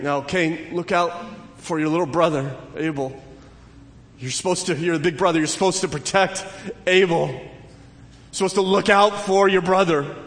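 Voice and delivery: a lightly voiced parent lecturing the big brother; scolding parent. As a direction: insist like a parent telling off the older son.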